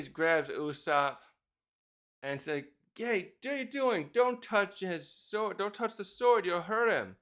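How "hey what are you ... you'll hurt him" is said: scolding yell. Retold or imitated. Dory scolds drunk Usopp.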